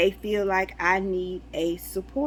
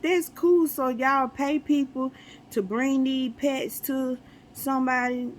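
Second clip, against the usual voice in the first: excited; 4 semitones higher than usual. Retold or imitated. Amazed reaction to mail dog.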